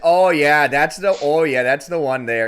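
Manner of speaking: high, loud hammed-up "oh yeah" moans; mock moaning. Acting out the Appleton lady for the friends, loud mock moans. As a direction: ham up a breathy bedroom voice. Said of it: "what it would sound like to have sex with the Appleton lady".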